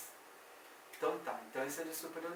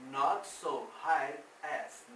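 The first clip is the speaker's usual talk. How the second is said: slow model phrase; much slower than usual. Shown as a demonstration.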